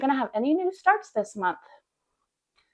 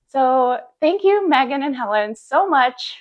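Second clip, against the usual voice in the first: gushing excitement; 4 semitones higher, 4 dB louder than usual. Real, not acted. Vlogger thanking two stitchers who promoted her, gushing excitedly. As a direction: gush your thanks, pitched up. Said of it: "I could not keep my cool".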